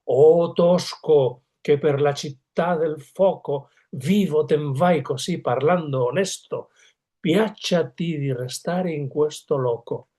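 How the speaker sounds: slow, solemn recited Italian verse; Farinata reciting Dante. Retold or imitated. To Dante, the dead Farinata calls out slowly. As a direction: draw the verse out slowly like a proud Tuscan ghost. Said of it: "entonces dice".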